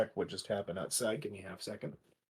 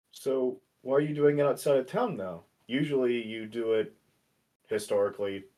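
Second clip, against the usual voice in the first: raised, louder character voice; in-character speech; 3 semitones higher, 4 dB louder than usual. Acted. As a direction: speak up as the character. Player voicing Spencer in-character.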